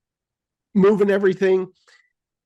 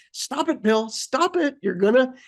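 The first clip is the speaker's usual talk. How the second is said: higher, mock stern self-scolding; scolding herself; 5 semitones higher than usual. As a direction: tell yourself off half-jokingly. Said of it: "I'm like".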